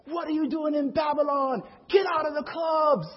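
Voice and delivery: performer's rebuke. Retold or imitated. Hip hop messengers to clubgoers on Friday night, hollering. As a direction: holler it out over a club crowd. Acts out rapping warnings in clubs.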